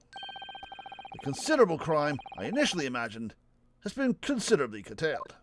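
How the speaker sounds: mildly grand detective delivery; lofty eloquence. Acted. Gamer reading the detective's showy line, mildly grand. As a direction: savour the alliteration with mock pride. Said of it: "So I can do alliteration too".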